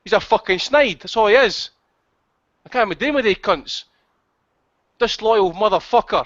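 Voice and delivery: heated, pushy telling-off that speeds up then slows to spit the insults; angry rant. Real, not acted. Host laying into caller Dab Dab on air, angry rant. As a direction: tear into him for being a snitch. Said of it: "the host's rant".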